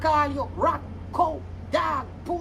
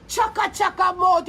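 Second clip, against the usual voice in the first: louder, jeering insult; mocking shout; 4 semitones higher, 4 dB louder than usual. Real, not acted. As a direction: hurl the insult.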